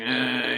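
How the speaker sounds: imitated moan of someone woken up; mock groggy moan. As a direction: groan like a dad roused from his bed. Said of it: "he's moaning".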